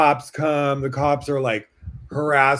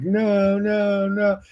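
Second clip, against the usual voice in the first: much higher, mild tearful no's; retold crying plea; 8 semitones higher, much slower than usual. Still begging the mugger, high mock sob. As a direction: plead in a thin, raised voice. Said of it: "I just kept crying and being like".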